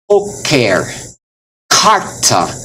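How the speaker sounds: poker and carta with a puff of air on the k; aspirated consonants. Shown as a demonstration. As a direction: burst of breath after each k in poker, carta. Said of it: "hear the breath coming out".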